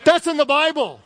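can't believe it's scripture; incredulous. Real, not acted. Pastor stunned by the verse, laughing in disbelief. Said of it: "disbelief at scripture".

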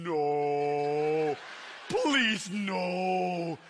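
drawn-out, pleading mock horror; hammed-up embarrassed begging; mock dread. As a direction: stretch out a mortified plea. Girl dreading a public serenade.

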